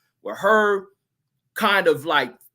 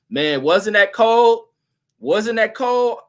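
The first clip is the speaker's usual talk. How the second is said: excited; 6 semitones higher, 7 dB louder, slower than usual. Real, not acted. Savoring a cold comeback.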